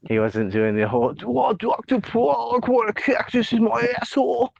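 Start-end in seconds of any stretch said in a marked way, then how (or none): 1.2-4.5 put-on lampoon a thick Boston accent; mock Boston accent. Podcast host mocking Fauci's accent in a Boston accent. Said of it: "lost his Yankee accent".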